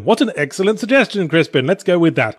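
sarcastic. Acted. Dev answering Crispin's suggestion in a meeting, sarcastic. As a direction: lay on the fake approval for a terrible idea. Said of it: "I'm being sarcastic".

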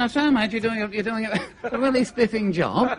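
lightly voiced encouraging officer; a hint of old-school officer's politeness; colonel. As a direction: politely praise a subordinate. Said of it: "The colonel said".

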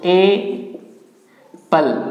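ए पल in two separated parts; correct pronunciation. Shown as a demonstration. Teacher showing the dictionary form, correct pronunciation ए पल split up. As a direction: break it apart, ए, then falling पल. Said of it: "ये आपका सही है".

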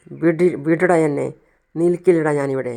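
loud, slow retold shout of a furious father; a storming-out father, voiced with real force; angry yell. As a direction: bark it out while pulling free. Father storming out, held back.

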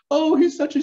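high-pitched fake sobbing complaint; hammed-up tearful wail; mock crying. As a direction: imitate a weepy outburst. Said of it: "And she's now crying".

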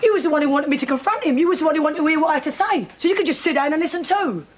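indignant accusation. Acted. Accusing him in a family row.

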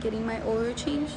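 hushed voice, kept low so nearby people won't hear; talking quietly. Real, not acted. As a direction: speak softly in public. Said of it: "I can't talk loud because there's people next to me".

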